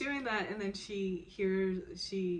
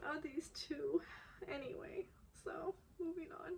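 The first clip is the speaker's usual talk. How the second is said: gushing; 9 semitones higher, 9 dB quieter than usual. Real, not acted. Fan overwhelmed by drama scene.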